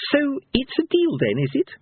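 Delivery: high-pitched pressing question; insistent minstrel. A narrator's reading. Minstrel kneeling on a villain's back, insistent. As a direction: push for agreement.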